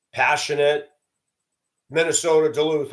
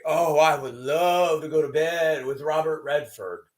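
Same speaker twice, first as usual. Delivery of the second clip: bragging women. Retold or imitated. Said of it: "hearing women brag".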